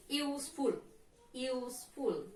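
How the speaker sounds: USE-ful, leaning on the first syllable; stress on first syllable. Shown as a demonstration. Teacher models adjective "Useful", first syllable stressed. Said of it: "More louder than second syllable".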